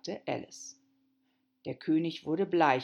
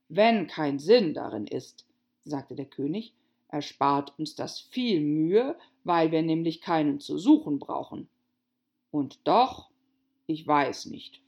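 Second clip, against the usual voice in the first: pompous king voice; 6 dB louder than usual. Acted. King pondering.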